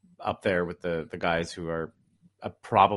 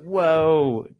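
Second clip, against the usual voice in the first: loud, mock-amazed exclamation; a burst of imitated awe; amazed reaction; 4 semitones higher, 7 dB louder than usual. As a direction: act out a fan being blown away, louder. Acting out a stunned viewer's reaction.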